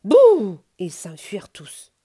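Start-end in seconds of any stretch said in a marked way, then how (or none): 0.1-0.6 huge scary boo. Acted. Bear jumps out scaring.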